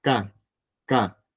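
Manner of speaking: K, a sharp hit k sound; K said short and struck, no breath after; K read as hard unaspirated k. Shown as a demonstration. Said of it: "se pronuncia como una K".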